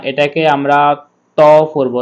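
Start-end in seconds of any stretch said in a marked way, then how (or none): 1.4-1.4 "ত" with a full, rounded o; heavy to. Shown as a demonstration. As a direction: say "ত" thick, as "to" rather than "taa". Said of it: "আর এটাকে তা". (মোটা করে "ত")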